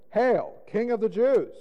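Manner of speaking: high, ringing acclamation; loud salute. A narrator's reading. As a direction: hail him like a crowd saluting. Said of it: "began to salute him".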